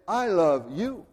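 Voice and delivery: slow, tender, direct; personal declaration of love. Retold or imitated. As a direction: say it slowly to one person. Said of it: "He says".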